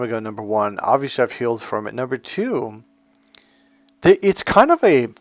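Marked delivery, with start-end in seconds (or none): 4.0-5.1 laughing through the words; real giggling. Real, not acted. Video host finds the old story bizarre, giggling. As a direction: giggle helplessly while trying to explain. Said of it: "I've been kinda giggling".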